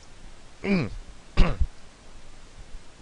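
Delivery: clears throat mid-sip; a quick rough throat clear. Real, not acted. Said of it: "Sorry, I'm drinking my coffee".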